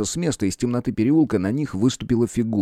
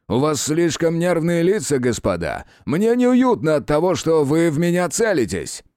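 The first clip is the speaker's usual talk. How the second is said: higher, emphatic appeal; insistent plea; 7 semitones higher than usual. A narrator's reading. Official persuading two armed men, insistent.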